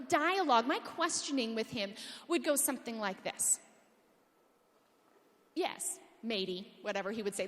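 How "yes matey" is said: slow, lower mock Australian accent. Speaker playing Peter Singer for the crowd, mock Australian accent. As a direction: put on a slow, half-hearted Australian accent. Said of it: "Let's not give him an accent".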